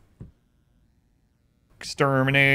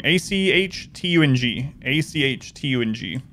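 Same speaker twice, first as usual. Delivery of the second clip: spelling it out; 3 semitones lower, 4 dB quieter than usual. Shown as a demonstration. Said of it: "Uh, Achtung".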